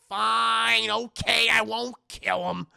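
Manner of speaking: loud, grudging acted concession; exasperated and loud, imitating a character; exasperated giving in. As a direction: burst out as if forced to agree.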